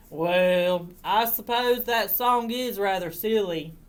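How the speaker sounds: put-on farmer voice, starting loud; considering farmer's admission; farmer relenting. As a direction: concede it as the farmer, reluctantly. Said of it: "he said".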